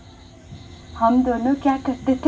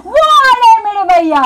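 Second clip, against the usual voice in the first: excited announcement; 6 semitones higher, 5 dB louder, faster than usual. Retold or imitated. Announcing brother's arrival.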